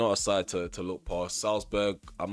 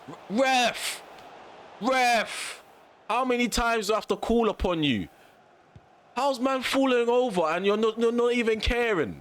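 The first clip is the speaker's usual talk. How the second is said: angry shouting at ref; 11 semitones higher than usual. Real, not acted. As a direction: yell at the ref in disbelief. Ranting at the game referee.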